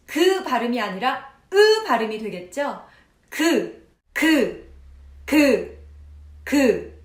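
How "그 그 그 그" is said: 그 with a firm closed k release; crisp velar 그. Shown as a demonstration. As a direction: pop each 그 cleanly. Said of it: "붙었다가 떨어지는지를 느껴보세요".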